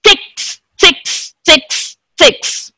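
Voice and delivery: softly repeated, separate ticks; clock ticking. Shown as a demonstration. Teacher demonstrates a clock's sound, ticking. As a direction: tick steadily like a clock. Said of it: "Then a clock sound".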